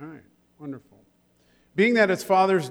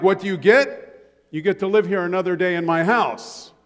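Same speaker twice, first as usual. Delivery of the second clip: a hint of a gruff father, louder; mock stern dad; 2 semitones higher, 5 dB louder than usual. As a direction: lecture the kid like his dad did. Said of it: "he would say something like".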